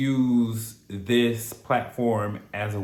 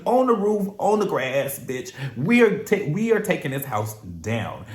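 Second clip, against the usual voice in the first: voicing the couple; 5 semitones higher than usual. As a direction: brag like a couple showing off. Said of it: "tell the cameras, like".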